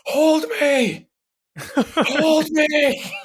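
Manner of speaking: put-on very high, demanding toddler cry with a laugh; little girl voice. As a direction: squeak it out like a bossy little girl. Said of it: "in a little girl's high-pitched voice".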